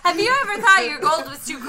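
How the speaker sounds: infomercial voice. Pretend. Mock ad pitch, fast.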